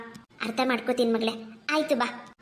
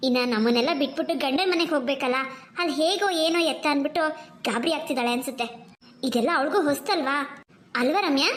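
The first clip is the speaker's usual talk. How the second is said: mother. Acted. Mother calming her two daughters, gently. Mother figure voiced lower.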